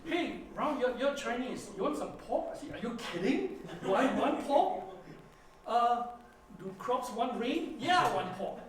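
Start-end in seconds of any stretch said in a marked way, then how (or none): 0.0-2.5 excited offer. Retold or imitated. Host offers pork, retold excitedly. 2.7-8.6 loud, high, eager yes to pork; hamming up delight at the offer; eager excitement. Retold or imitated. Retold traveller eagerly accepting pork, loud and high.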